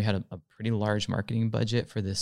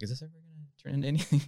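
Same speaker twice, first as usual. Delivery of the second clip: exasperated; 6 semitones higher, much faster than usual. Retold or imitated. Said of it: "And I was like".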